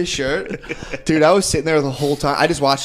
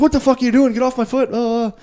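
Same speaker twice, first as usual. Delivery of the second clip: mock indignant outburst; 11 semitones higher than usual. Comic imitating the Irish lady at his touch, high indignation. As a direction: squawk in mock outrage.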